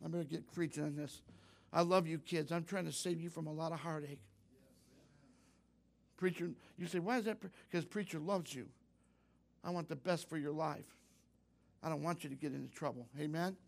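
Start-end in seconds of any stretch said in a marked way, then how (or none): 1.7-13.1 tender sincerity. Real, not acted. Preacher telling the kids he loves them, tender and sincere. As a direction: drop the volume and plead gently.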